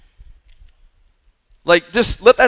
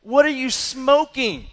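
high, disbelieving what are you smoking; mock outrage at the dad's excuses; incredulous rebuke; 6 semitones higher, slower than usual. Pastor retelling his reaction to a dad, high and incredulous. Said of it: "And I was just going".

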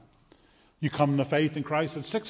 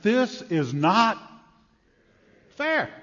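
mock indignant whine; 5 semitones higher, 4 dB louder, much slower than usual. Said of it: "we read this parable and we say".

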